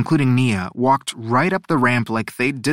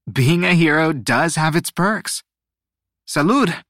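lifted, lightly amused cheer; amused toast; 4 semitones higher than usual. A narrator's reading. Nia laughs and toasts the drinks, amused and lifted. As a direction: toast brightly, pitched up. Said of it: "Nia laughed".

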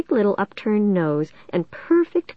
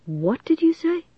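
high, incredulous teacher's challenge; affronted teacher; 11 semitones higher than usual. A narrator's reading. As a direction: shoot the pitch up, challenging a pupil. Offended teacher challenges defiant pupil.

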